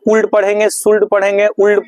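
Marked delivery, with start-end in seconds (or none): 0.0-0.3 कूल्ड said as "koold", L sounded; L wrongly pronounced. Shown as a demonstration. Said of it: "पढ़ेंगे तो गलत होगा". 0.7-1.1 सुल्ड said as "shoold/soold", L sounded; L wrongly pronounced. Shown as a demonstration. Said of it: "पढ़ेंगे तो गलत होगा". 1.5-1.9 उल्ड said as "oold", L sounded; L wrongly pronounced. Shown as a demonstration. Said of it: "पढ़ेंगे तो गलत होगा".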